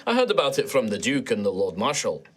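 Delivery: lilting Scottish dwarf knight; dreamy Scottish accent. Acted. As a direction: recall it in an easy Scottish lilt. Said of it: "it's a bit more dreamy".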